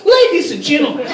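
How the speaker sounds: high oratorical appeal in a put-on Arabic accent; mock Arabic accent. Lawmaker appealing to the assembly, high mock Arabic accent. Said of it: "That's my Arabic accent".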